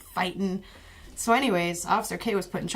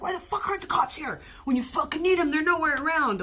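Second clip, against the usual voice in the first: mock angry gang kids; 9 semitones higher than usual. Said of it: "They're like".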